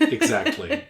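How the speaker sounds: exactly squealed very high, rising; excited high squeak. Real, not acted. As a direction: squeak it up with delight. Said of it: "repeated with a high rise".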